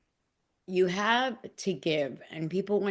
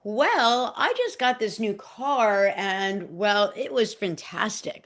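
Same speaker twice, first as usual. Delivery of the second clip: mock bragging; 2 semitones higher, 3 dB louder than usual. Speaker mocking a fake show-off she is not, lightly smug. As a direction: lightly send up someone boasting about a new car. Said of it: "There's no, like".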